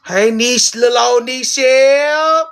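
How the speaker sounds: high, loud greeting squeal; excited squeal. Real, not acted. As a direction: squeal a happy hello.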